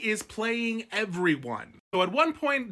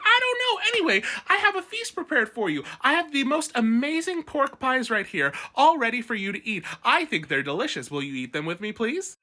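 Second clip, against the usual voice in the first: high, sing-song fake innocence, much higher; innocent Manderley host; 5 semitones higher than usual. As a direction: play the sweet innocent host offering pies. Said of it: "he's like".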